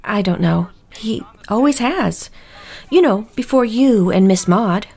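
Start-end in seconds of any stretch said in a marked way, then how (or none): 1.0-2.3 whispered confidence. Acted. Housekeeper confides family secret.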